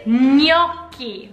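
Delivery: gnocchi with "ny" onset, "NYOK-kee"; Italian gnocchi. Shown as a demonstration. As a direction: gnocchi with a gna sound. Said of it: "but really it's".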